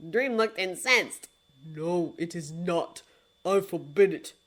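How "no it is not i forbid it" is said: grave lord of dreams. Acted. Dream's low voice.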